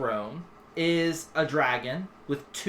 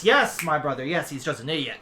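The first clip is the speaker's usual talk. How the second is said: agreeing dragon head; 3 dB louder than usual. Acted. Second head echoes his brother, subdued agreement. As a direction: agree mildly, trailing down.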